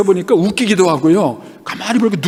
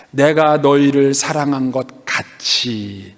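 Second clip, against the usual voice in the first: solemn reading; 5 semitones lower, much slower than usual. Acted. Scripture read out with weight.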